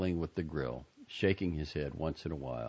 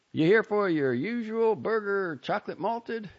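put-on much higher, eager young man; nervous counter boy; 6 dB louder than usual. A narrator's reading.

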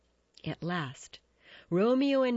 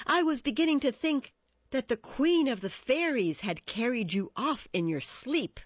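high, louder, mocking lilt; sarcastic; 8 semitones higher, 4 dB louder than usual. A narrator's reading. Mercutio needles his late friend Romeo, sarcastic. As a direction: tease the latecomer with theatrical sarcasm. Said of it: "Mercutio said sarcastically".

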